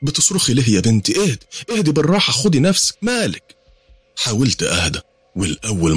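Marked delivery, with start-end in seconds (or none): 0.0-3.6 high, quick anxious soothing; calm a frightened child; high-pitched fretful mother; worried mother. Acted. Mother soothing screaming daughter.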